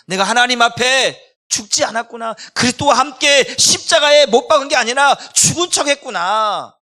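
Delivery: loud, high cry of confession; preaching at full force. Real, not acted. Preacher's climactic outcry. (설교단에서 온 힘을 다해 외치는 고백)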